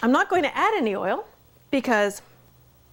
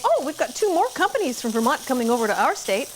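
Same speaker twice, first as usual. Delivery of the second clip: mock laughing; 3 semitones higher than usual. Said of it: "Mayor Dan Stewart of Plattsburgh was laughing".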